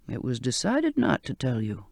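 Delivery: put-on low, soft old man coaxing; old sailor's voice. Old cook reassuring frightened Charlotte, low and soft. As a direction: coax her gently to touch him.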